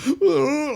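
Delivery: high mock wail; high, loud cartoon sob; imitated ugly crying. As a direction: imitate a overwhelmed mom's wordless blubber. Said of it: "she's got the ugly cry face on".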